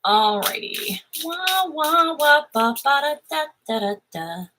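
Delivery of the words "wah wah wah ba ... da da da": muffled wah wah talk. Pretend. Wordless muffled talk noise.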